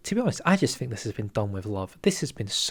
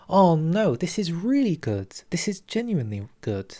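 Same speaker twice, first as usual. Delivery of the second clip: sudden loud, high burst of delight; delighted outburst; 5 semitones higher, 3 dB louder than usual. Real, not acted. Thrilled by the Mexican throne focuses, loud and high. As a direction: burst out with glee.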